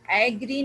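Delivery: एग्री starting with an open A as in cat; एग्री with open first vowel instead of schwa; wrong full vowel. Shown as a demonstration. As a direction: say एग्री as AE-gree. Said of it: "एग्री नहीं है".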